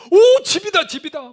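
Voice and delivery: high, loud cry of joy at last seeing a house; overjoyed shout. Retold or imitated. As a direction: shout it like a lost traveller spotting shelter. Team shouting at finding a house. (집을 발견하고 기뻐 외치는 목소리)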